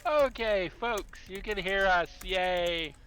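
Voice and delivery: 1 cheerful announcement. Real, not acted. DM cheering once audio works.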